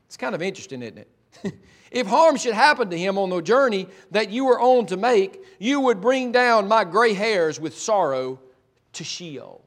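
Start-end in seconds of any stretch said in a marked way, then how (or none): 1.9-9.6 dismay. Acted. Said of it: "Do you hear the dismay?".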